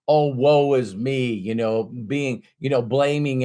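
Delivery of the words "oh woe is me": mock self-pity. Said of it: "you stop".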